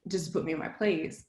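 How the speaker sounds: hushed, whispered worry; worried whisper. Retold or imitated. Her worried inner voice after the defense, hushed. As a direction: whisper it like a panicked thought. Retold fearful inner thought.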